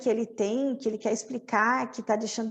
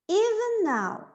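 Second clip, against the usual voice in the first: dramatic line; 8 semitones higher, slower than usual. Shown as a demonstration.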